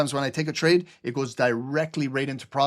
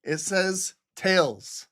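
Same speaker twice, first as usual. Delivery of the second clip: mock announcement; 4 semitones higher, much slower than usual. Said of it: "Flip the coin".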